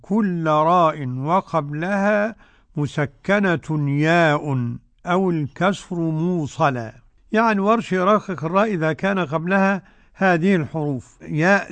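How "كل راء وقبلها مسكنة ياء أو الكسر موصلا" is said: slow, measured metrical delivery; didactic verse recitation. Shown as a demonstration. Sheikh quoting the rule poem, slow recitation. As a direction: recite the poem line with drawn-out vowels.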